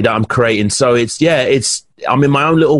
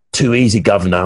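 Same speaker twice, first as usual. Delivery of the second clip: lower-pitched imitation of a worn-out client; imitating exhausted client; 4 semitones lower than usual. Beaten client to trainer from the shower floor, imitated low voice. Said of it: "and he said".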